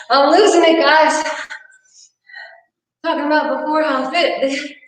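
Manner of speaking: gasping, worn out; winded and laughing it off; out of breath. Real, not acted. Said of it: "now I'm dying here".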